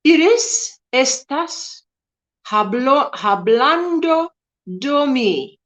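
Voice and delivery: a light attempt at Spanish; mock Spanish. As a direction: try out a bit of Spanish, playfully. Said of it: "I'm butchered that".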